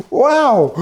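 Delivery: high, loud burst of disbelief; surprised wow. Real, not acted. Host reacts to Alexa's Harris answer with loud surprise. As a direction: blurt it out, genuinely amazed.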